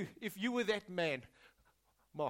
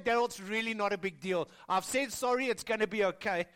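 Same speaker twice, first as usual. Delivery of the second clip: dismissive congregant; 4 dB louder than usual. Retold or imitated. A congregant telling the pastor it's fine, dismissively. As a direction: shrug it off like it's nothing. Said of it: "you might be saying".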